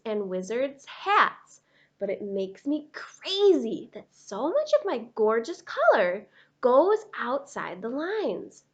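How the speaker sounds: lightly voiced neat-freak crayon, exasperated; a hint of a prim, fed-up crayon; fussy Purple Crayon. Purple Crayon scolding Duncan about messy coloring, exasperated.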